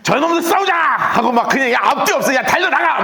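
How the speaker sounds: rally the troops without thinking, high and eager; hot-headed charge. Retold or imitated. An emotional leader urging his army to charge, a high eager battle cry. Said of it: "극 F였으면 어떻게 했겠습니까?".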